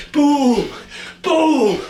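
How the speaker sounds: high, punchy boom called out with a laugh; excited cheer. Real, not acted. Coach cheering the class on with an excited, laughing boom. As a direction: hype them up with each boom.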